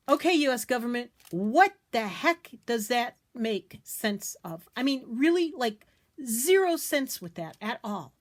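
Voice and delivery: emphatic, indignant rant; fed up with nonsense rules; exasperated. Real, not acted. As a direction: lean hard on the key words in disbelief. Ranting at illogical government postage rule.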